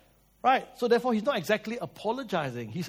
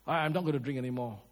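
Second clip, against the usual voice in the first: quicker, a touch of panic, softer; panicked promise; 4 semitones lower, 3 dB quieter, faster than usual. Retold or imitated. Husband begging wife not to leave, mildly panicked. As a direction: blurt it out like a scared husband. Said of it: "Oh, you panic already".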